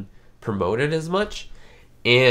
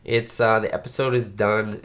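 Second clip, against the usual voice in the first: nasal voice from a cold; nasal sick voice; 2 semitones higher than usual. Real, not acted. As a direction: talk through a stuffed nose. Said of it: "you can hear my nasally voice".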